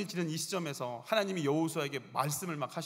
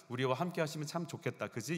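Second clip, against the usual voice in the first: wishful hoping. Shown as a demonstration. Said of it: "이게 아니고".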